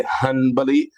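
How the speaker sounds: "Hanbali" with first syllable HUN and a short, weak middle; their pronunciation of Hanbali. Shown as a demonstration. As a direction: say "Hanbali" as HUN-buh-lee. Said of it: "just like y'all say".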